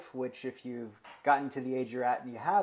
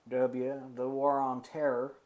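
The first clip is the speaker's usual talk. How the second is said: George W. Bush voice. Retold or imitated. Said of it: "That's how W talked".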